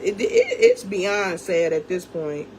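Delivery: slow, laughing through the frustration; half laugh, half cry over how sad it is; bitter laugh. Real, not acted. Rant about baby daddy clout.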